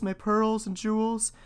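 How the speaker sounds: put-on high, slow young princess. A narrator's reading. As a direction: lift it into an eager girlish plea. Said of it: "said she".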